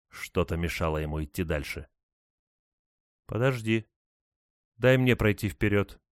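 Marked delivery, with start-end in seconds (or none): 3.3-6.0 whispery telepathic voice. A narrator's reading. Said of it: "Голос звучал прямо у него в голове".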